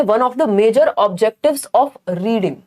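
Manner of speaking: slow, deliberate question read; reading the question aloud. Shown as a demonstration. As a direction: read each word out carefully. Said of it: "question number one है". (धीमे से प्रश्न पढ़ना)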